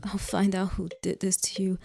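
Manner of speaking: unvoiced hushed promise; whispered vow. A narrator's reading. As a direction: breathe the vow out.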